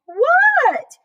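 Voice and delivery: high, loud startled "What?"; high froggy voice. A narrator's reading. Froggy answering the coach mid-game. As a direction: answer like a distracted cartoon frog.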